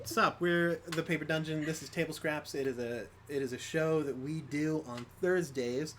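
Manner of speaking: talking around a hard candy; mouth full. Real, not acted. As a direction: speak with a lemon drop in your mouth. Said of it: "hard to speak clearly with a hard candy in my mouth".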